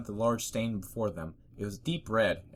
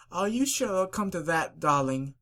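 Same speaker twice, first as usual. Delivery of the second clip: posh lady pony; 9 semitones higher, 4 dB louder than usual. Acted. Rarity voiced.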